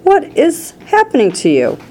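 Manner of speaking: high, bewildered alarm; alarmed yell. A narrator's reading. Mother questions her changing daughter, high alarmed yell. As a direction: cry it out high. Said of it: "yelled Missus Beauregard".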